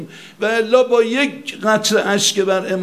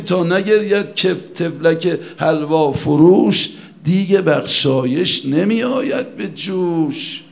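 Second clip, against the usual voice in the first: recited verse; 3 semitones lower, slower than usual. Acted. Verse quoted in the sermon.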